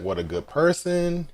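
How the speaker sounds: high, moved exclamation; touched Jinbei. Retold or imitated. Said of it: "Jinbei's like".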